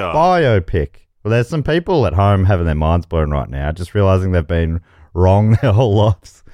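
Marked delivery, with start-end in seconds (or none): 0.0-0.9 "Biopic" as BY-oh-pick; stress on BIO. Shown as a demonstration. Host settles the debate, "Biopic" as BY-oh-pick. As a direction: join bio and pic, weight on the first syllable. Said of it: "I say biopic".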